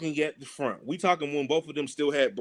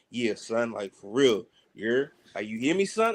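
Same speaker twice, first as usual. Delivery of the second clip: New York cousin; 7 semitones lower than usual. Retold or imitated. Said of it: "Closer he gets to New York".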